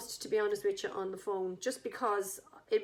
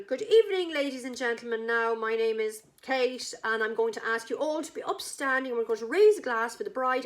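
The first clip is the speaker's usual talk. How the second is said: mock toast announcement; 3 dB louder than usual. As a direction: play the manager opening the toast to the hall.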